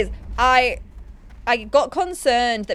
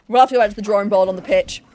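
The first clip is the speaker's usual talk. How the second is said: mock declaration; 7 dB louder, much faster than usual.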